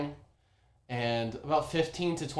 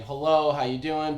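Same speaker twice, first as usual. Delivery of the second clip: mock Boston accent; 3 semitones higher, 6 dB louder than usual. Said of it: "fake Boston accents".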